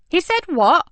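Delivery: shocked disbelief; exclaiming. Acted. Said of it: "she exclaimed".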